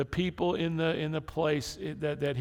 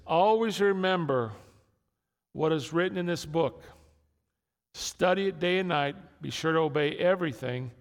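louder, rising scripture reading; scripture read with force; 4 semitones higher, 3 dB louder than usual. Acted. Pastor reading Joshua to the church, proclaiming. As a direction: proclaim the verse to the congregation.

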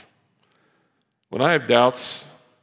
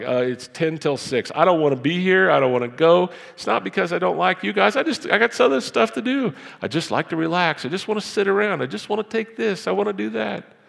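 high, loud mock whining; whiny excuse; 9 semitones higher, 5 dB louder than usual. Pastor mimicking himself skipping Bible study, high mock whine. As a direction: sulk like you'd rather stay home. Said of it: "I'm like".

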